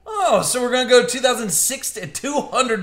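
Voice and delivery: real excited yell at the surprise; excited shout. Real, not acted. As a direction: shout it out, thrilled by the pull. Surprised by a bonus box.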